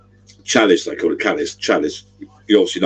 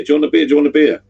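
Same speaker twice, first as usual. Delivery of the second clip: higher, eager host offering a beer; imitating the friendly pub owner; 8 semitones higher, 3 dB louder, faster than usual. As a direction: mimic him pushing a beer on you, pitched up. Bar owner offering free beer.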